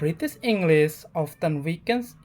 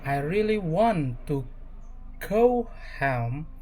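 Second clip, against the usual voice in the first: American English accent with a clear rolled R; relaxed American English accent; slower than usual. Shown as a demonstration. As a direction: say it the American way, R sounded. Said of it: "American English".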